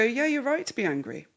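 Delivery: gentle, even acknowledgement; calm validating. Shown as a demonstration. Parent calmly validating an angry son, gentle and even. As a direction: soothe him, don't fight the point. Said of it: "and you go".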